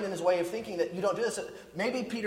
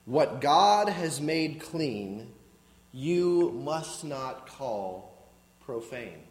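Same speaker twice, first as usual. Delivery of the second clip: slow voice of God; 4 semitones lower, much slower than usual. Retold or imitated. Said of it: "The voice said to him".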